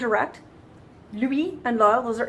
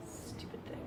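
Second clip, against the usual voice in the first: annoyed mutter; 22 dB quieter than usual. Real, not acted. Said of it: "frustrated with the computer".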